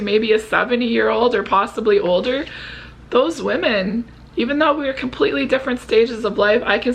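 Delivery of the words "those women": ordinary delivery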